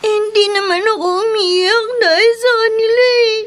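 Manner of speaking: tearful, sobbing through words; crying child. Acted. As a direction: speak while crying. (umiiyak na bata)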